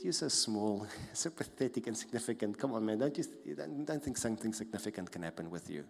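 lightly voiced inner mocker; mocking voice, chuckling. Mocking voice in your head belittling you, lightly scornful. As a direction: belittle them with a scoffing little laugh. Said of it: "The mocking voice".

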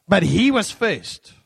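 put-on high, loud, slow childish protest; whiny child. Child protesting to his mother, high slow whine. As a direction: whine it like a kid pleading his case.

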